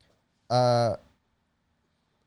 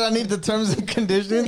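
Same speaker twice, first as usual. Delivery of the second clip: mocking imitation; 7 semitones higher, 5 dB louder than usual. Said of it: "She said".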